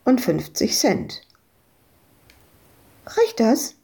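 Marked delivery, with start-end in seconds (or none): 3.1-3.7 put-on a high, asking child's voice; small girl checking if it's enough; little girl voice. Little Madita asks Ewke, childlike and high.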